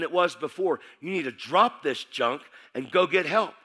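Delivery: slow, emphatic scolding as a friend; retold confrontation. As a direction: lay into him word by word. Friend angrily confronts him about faith.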